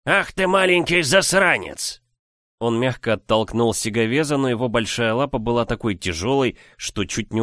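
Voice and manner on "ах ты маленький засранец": squeaky giant. Acted. Giant insults hero.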